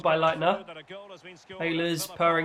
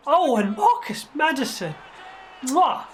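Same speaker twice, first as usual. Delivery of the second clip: goal shout; 6 semitones higher than usual. Acted. Commentator hailing Maddison's third goal, shouting.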